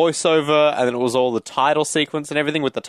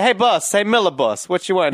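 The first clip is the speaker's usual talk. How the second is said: put-on Australian accent; 4 semitones higher than usual. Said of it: "actors turned up, like".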